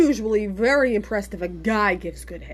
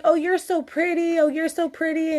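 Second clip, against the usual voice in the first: imitating a Spanish accent; 6 semitones higher than usual. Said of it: "didn't speak a whole lot of English".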